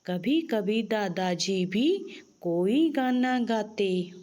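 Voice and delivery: put-on slow, sing-song reading of a children's poem; poem recitation. (बच्चों को कविता सुनाती हुई धीमी लय)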